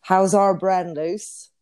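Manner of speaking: lightly put-on Bristol accent; a hint of Bristolian in a quoted greeting. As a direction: imitate a Bristolian cousin. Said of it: "Get, do an impression".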